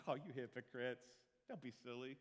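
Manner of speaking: tut-tut them lightly; a gentle, harmless tut-tut to the hypocrites; mild mock scolding. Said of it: "do you think Jesus is like".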